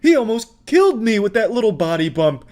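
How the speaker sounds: high, mock-sobbing complaint; mock whiny meltdown. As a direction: ham up a crybaby tantrum. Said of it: "he starts blaming the pizza place".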